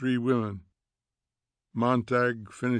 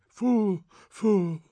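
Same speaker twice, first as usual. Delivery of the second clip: scolding; 9 semitones higher, 4 dB louder than usual. Acted. Faber scolding again.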